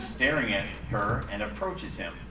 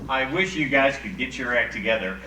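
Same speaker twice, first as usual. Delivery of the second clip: huffy; 4 dB louder than usual. Retold or imitated. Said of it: "She replies in a huff".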